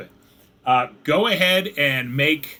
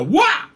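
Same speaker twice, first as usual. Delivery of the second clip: short, louder, higher "wah"; mock falling yelp; 6 dB louder than usual. Game master imitating a sudden fall, mock yelp. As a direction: toss out a quick cartoonish yelp.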